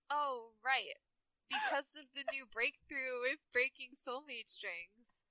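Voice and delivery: lightly voiced Valley Girl; Lena. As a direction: read it as a mild Valley Girl. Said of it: "make Lena a Valley Girl".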